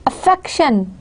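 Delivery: "Affection" stressed on the double F; stress on F sound. Shown as a demonstration. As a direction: lean into the "ff" of "Affection". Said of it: "we're stressing f sound".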